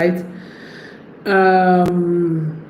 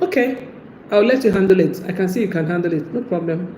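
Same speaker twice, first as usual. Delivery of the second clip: dismissive; 4 dB quieter than usual. Retold or imitated. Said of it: "when you say something like".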